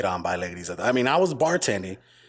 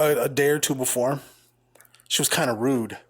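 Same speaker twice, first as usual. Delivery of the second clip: hushed aside. Real, not acted.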